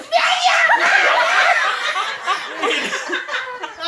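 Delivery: high, laughing mock yell from afar; retold holler. Laughing mock yell of dad in the ditch. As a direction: mimic the dad's yelp from the ditch with a laugh. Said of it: "I heard".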